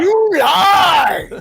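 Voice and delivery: high, loud accusing cry; theatrical shout. Acted. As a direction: fling the accusation. Mock quarrel.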